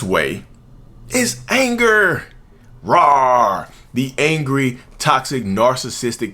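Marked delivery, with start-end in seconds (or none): 2.8-3.7 a loud mock roar of rage. Acting out the angry narcissist's rage, mock roar. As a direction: roar like a cartoon angry beast.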